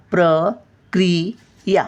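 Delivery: प्रक्रिया slowly, split into syllables with pauses; syllable-by-syllable demo. Shown as a demonstration. Teacher showing the short vowel, प्रक्रिया slowly syllable by syllable. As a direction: break प्रक्रिया into separate syllables. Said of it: "क्री बघा, पटकन बोलतो आपण".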